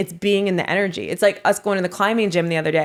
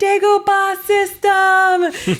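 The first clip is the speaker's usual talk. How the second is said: put-on shouting, higher and louder; 13 semitones higher, 5 dB louder than usual. Retelling what was shouted to someone up high: retelling a shout.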